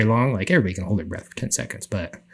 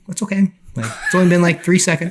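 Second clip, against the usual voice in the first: high, laughing self-talk; laughing reassurance; 7 semitones higher, 4 dB louder than usual. Retold or imitated. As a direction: laugh it off while reassuring yourself. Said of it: "I'm like".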